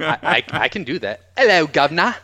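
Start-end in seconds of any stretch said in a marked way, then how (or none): 1.4-2.1 higher, louder British caricature; American doing a bad British accent; mock British accent. Shown as a demonstration. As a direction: do a hammed-up British greeting. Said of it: "you want me to do that".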